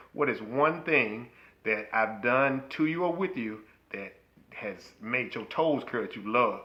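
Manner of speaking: 穏やかにゆっくり問う; slow modeled question. Shown as a demonstration. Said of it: "ask that question".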